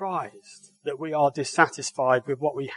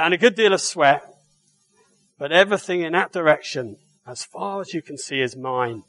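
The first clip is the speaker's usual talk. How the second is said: put-on Suffolk accent; faster than usual. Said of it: "So I would do a Suffolk accent, or attempt to".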